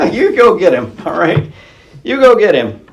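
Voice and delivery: laughing sarcastic cheer; mock them with a chuckle; mock encouragement. Saul sends David off with a sarcastic, laughing cheer. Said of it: "Just kinda sarcastic".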